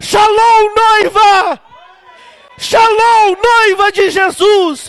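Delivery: joyful, jubilant shout.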